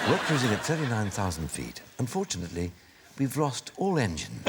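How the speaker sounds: deadpan mock pilot announcement, lightly played; reassuring captain. Pilot telling passengers of engine failure, mock-reassuring. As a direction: break bad news as an untroubled captain. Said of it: "the most reassuring voice a plane passenger".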